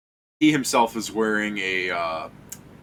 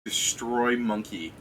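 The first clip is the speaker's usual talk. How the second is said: slow deadpan; slower than usual. Real, not acted. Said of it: "All I hear is "Destroy monkey".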